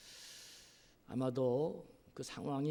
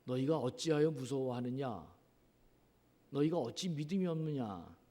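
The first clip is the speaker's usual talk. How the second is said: scolding. Retold or imitated. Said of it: "이렇게 야단치시면서 꾸짖고".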